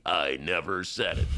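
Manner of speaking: a lightly voiced gruff old Bernie; bad Bernie impersonation. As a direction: do a half-hearted Bernie denial. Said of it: "That's my bad Bernie imitation".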